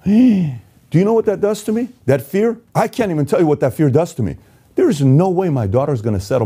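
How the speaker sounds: gasping fear. Real, not acted. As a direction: let the fear for his daughter break through. Gasp, fear for his daughter.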